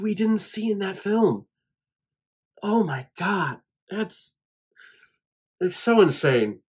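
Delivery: moved almost to tears, pushing the words out high; choked up, near tears. Real, not acted. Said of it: "Tears are coming".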